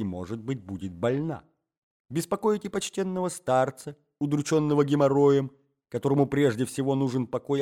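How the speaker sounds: indignant scolding. Acted. Young man berates the jealous husband hiding with him, indignant tirade. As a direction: build the accusations into an outraged lecture.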